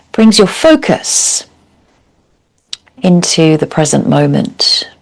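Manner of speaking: calm, measured yoga teacher's guidance with long pauses; guided meditation. Real, not acted. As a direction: guide them gently into stillness, leaving space between phrases. Leads a seated yoga meditation.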